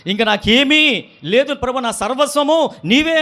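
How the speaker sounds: preacher voicing a believer's fervent surrender; fervent prayer. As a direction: cry it out to God slowly. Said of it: "అంటాం".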